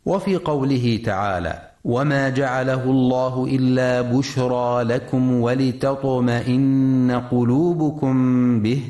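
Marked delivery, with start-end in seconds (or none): 1.8-8.8 slow, level chant with long held vowels; Quran recitation. Shown as a demonstration. Teacher reciting a verse to radio listeners, slow Quran recitation. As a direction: recite slowly on a sustained tone, stretching the elongations.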